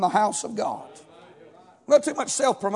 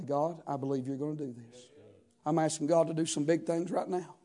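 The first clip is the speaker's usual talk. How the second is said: soft, low mock pious prayer; a hint of a showy prayer; lightly voiced pious prayer; 8 semitones lower, 13 dB quieter than usual. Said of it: "I pray that way every day".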